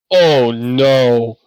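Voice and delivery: loud, drawn-out cry of dismay. Acted. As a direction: let the loss sink in, loudly. Smith sees his sword ruined.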